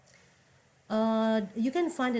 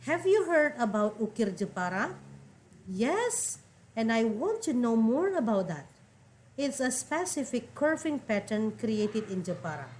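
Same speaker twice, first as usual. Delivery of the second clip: reading dialogue lines. Acted. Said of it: "the dialogue is between two men".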